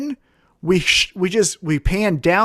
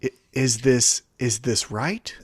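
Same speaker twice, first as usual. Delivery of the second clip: mock mindful hush; 8 semitones lower, 5 dB quieter than usual. Mock mindful checklist before tweeting.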